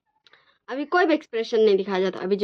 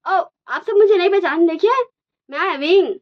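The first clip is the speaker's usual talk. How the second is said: dramatic reveal; 7 semitones higher, 5 dB louder than usual. Acted. Masked Wing reveals himself at wedding.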